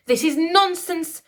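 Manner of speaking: high, loud, slow indignant queen; high indignant royal protest. A narrator's reading. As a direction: protest it, shocked and offended. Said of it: "she protested".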